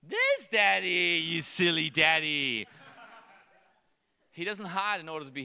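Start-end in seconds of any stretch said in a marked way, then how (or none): 0.1-2.7 slow, laughing sing-song; playful toddler voice. Retold or imitated. Toddler daughter finding dad, slow and laughing. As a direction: delight at finding daddy. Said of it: "until I".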